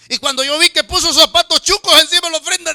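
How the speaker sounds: can't hold back the laugh telling it. Real, not acted. Pastor to congregation, laughing in disbelief.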